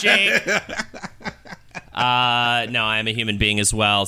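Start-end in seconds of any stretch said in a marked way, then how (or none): 0.0-0.4 higher, louder robot call. Pretend. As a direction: call his name like a robot. Robot calling Jake.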